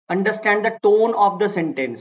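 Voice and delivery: slow dictation. Shown as a demonstration. Teacher restates rule in English.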